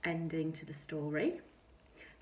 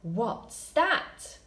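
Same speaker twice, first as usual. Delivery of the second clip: loud question; 3 semitones higher, 5 dB louder than usual. Shown as a demonstration. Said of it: "I want it to be really, really loud".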